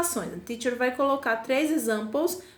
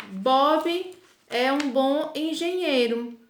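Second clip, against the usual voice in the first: slow, careful dictation pace; teacher reading an example sentence slowly; slower than usual. Shown as a demonstration. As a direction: spell the example out slowly for the class. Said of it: "se eu disser".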